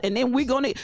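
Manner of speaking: breaking into high laughs mid-phrase; laughing. Real, not acted. Streamer laughing at the inside joke, high giggles. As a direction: giggle through the word truth.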